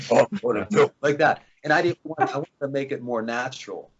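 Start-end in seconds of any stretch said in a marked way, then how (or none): 0.1-0.9 mock tough-guy villain voice, a bit louder; forced deep voice. Shown as a demonstration. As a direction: put on a forced bad-guy voice. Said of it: "when they use this deep voice".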